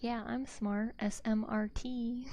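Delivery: smug fake genius; playing dumb proudly; mock proud dumb. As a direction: proudly spell it wrong, S M R T spelled out slowly. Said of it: "people be like".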